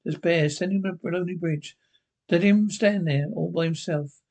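measured, ominous narrator voice; story narration. A narrator's reading. Narrator introducing the lonely man's story, measured and ominous. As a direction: set the scene like a TV anthology host.

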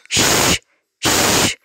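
"shh" as a long, unvoiced hush; quiet shh sound. Shown as a demonstration. Teacher showing children the library sound, quiet shh sound. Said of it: "the only sound you will hear".

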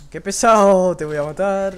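furious yell at the enemy; angry shout. Real, not acted. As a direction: yell it in real frustration. Frustrated at enemy in game.

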